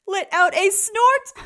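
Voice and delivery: loud high laugh; snorting laugh. Acted. Bruce laughs at Cyril, snorting.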